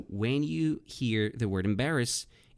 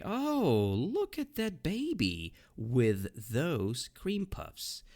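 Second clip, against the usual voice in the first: mock snide remark; 6 semitones higher, much slower than usual. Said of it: "they say".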